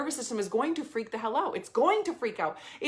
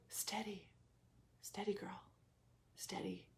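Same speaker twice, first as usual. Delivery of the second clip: soft unvoiced whisper, slow; calm yourself with a hushed breath; soothing whisper; 3 semitones lower, 19 dB quieter than usual. Breathing through the urge to give in, soft whisper. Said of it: "I breathed through".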